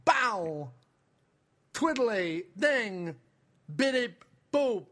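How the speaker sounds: chirpy droid beeps and whistles. Pretend. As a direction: bleep like a little robot. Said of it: "Christopher Walken is R two D two".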